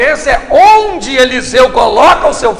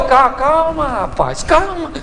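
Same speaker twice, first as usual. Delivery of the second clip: urging calm; much slower than usual. Acted. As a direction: drop from preaching into an easy, soothing call. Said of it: "Eliseu olhou e falou".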